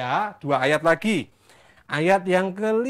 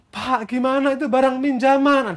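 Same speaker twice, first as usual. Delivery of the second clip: acted plea; 4 semitones higher, 4 dB louder than usual. Replays the student's plea.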